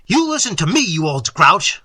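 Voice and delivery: loud, emphatic telling-off; indignant hiss, voiced and forceful; hissed anger. A narrator's reading. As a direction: lay into him, dragging out the insult. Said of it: "I hissed".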